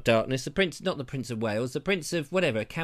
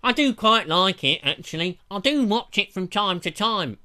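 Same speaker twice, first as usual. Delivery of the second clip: prince voice; 4 semitones higher, 5 dB louder than usual. Retold or imitated. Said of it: "He said".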